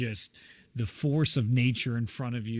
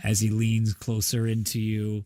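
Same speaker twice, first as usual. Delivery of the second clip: ordinary talk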